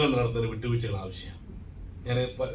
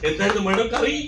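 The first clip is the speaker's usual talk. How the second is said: high, coaxing question to madam; a smooth stranger flattering a neglected wife, high and coaxing; mock sweet-talker; 9 semitones higher, 4 dB louder than usual. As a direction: coo it like a smooth charmer. Man sweet-talking a lonely wife.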